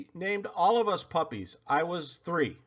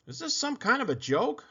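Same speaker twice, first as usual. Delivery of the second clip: higher, irritated question; snapping vet; 9 semitones higher than usual. Acted. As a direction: snap at the caller. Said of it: "snapped the vet".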